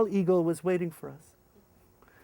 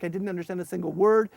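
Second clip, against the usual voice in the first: normal talking voice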